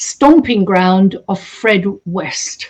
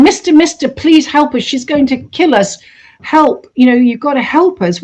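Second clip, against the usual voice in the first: put-on desperate pleading girl; 4 semitones higher than usual. Tied girl begging for help.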